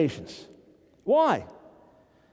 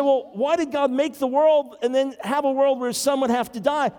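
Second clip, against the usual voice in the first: questioning skeptic; 5 semitones higher than usual. Retold or imitated. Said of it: "You say".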